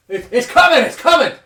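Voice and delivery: loud, high mock shout; hammed-up bartender yell. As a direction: burst out with the news. Bartender voiced, sudden loud outburst.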